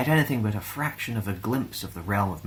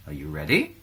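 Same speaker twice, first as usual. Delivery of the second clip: teacher's question; 5 semitones lower than usual. A narrator's reading. Teacher asks.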